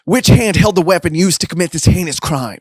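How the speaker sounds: high, accusing demand; frantic interrogation. Acted. Best interrogates Damien over a crime, frantic and accusing.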